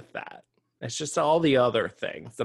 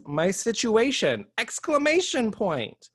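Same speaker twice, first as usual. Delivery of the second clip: reading with exclamation; 4 semitones higher, 3 dB louder, slower than usual. Shown as a demonstration. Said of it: "And this one says".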